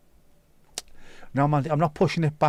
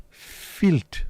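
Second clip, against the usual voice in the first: higher, put-on voice, disgusted Filth; hammed-up disgust; 6 semitones higher than usual. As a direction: ham up the disgust. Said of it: "repeated mock disgust".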